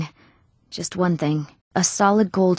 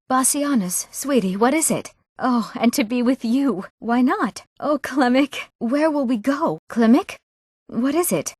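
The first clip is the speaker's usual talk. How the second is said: higher, sweet and eager; girlish delight, pitched up; lovestruck; 4 semitones higher than usual. Acted. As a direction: coo excitedly at a sweetheart. Young woman greeting her sweethearts.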